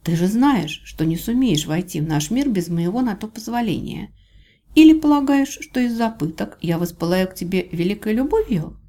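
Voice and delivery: a hint of scornful challenge; challenging heroine. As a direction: argue back at the captor with mild defiance.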